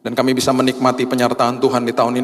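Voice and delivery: closing prayer, voice lifted. Acted. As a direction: lead the church in a fervent prayer.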